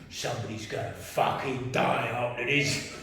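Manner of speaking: slow, low mock threat; menacing. Man muttering about revenge after the row, slow menace. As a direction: draw the threat out, held back.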